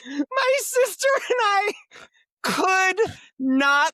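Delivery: high, loud, slow words through laughter; laughing while talking. Real, not acted.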